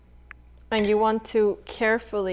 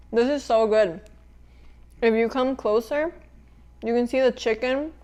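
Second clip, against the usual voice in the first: mouth full. Real, not acted. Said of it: "eating with my mouth full".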